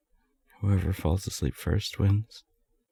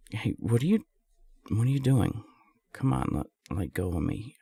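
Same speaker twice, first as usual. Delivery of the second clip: startled protest; 3 semitones higher than usual. Acted. Surprised protest as the listener grabs hold. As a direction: caught off guard, pushing back.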